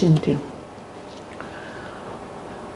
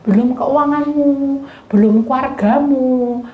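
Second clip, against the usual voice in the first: ordinary talk, nothing marked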